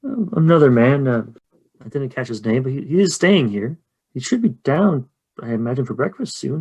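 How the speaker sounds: a hint of a gossiping innkeeper; lightly voiced innkeeper, puzzled. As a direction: confide in the visitors about odd goings-on.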